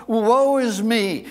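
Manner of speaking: loud, slow mock lament; crying out. Preacher repeats Isaiah's response to God, crying out. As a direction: call it out with drawn-out words. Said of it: "He cries out".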